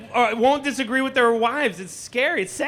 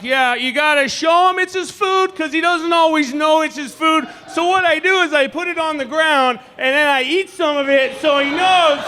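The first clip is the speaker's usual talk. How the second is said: dad voice; 4 semitones higher than usual. Retold or imitated. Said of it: "he's like".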